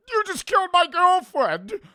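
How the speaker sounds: high, loud anguished wail; anguished shout. Retold or imitated. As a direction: wail it like losing a lover. Acted quote, grief over deleted AI.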